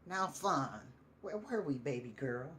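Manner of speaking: lightly voiced, intent and tender drunk; intent murmur to Fawn. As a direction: lean in and speak to her memory. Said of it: "he intently begins to speak again".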